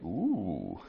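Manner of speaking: hushed ooh rising into excited glee; delighted. Retold or imitated. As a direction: start hushed then build up, thrilled by a new player. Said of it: "I'm like".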